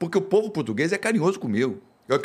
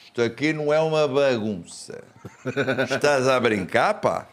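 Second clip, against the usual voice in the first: mock Portuguese accent. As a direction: imitate an indignant local in a Portugal accent. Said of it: "Ele faz igualzinho?".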